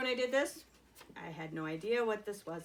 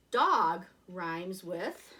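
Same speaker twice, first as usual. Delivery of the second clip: 1 slow prompt; 2 semitones lower, 5 dB louder, much slower than usual. Shown as a demonstration. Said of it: "our rhyming family today".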